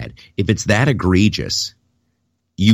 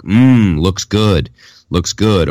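mock board member; 5 dB louder, much slower than usual. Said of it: "say stuff like".

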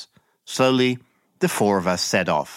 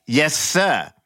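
shouted reply; 6 semitones higher than usual. Acted. Narrator answering the captain, mock parade-ground shout. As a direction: answer like a soldier at attention. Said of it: "shouted back".

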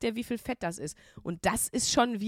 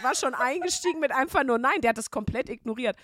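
normal talking voice

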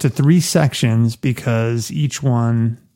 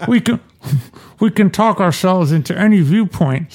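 light Michael voice; 6 semitones higher than usual. Pretend. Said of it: "Michael laughed".

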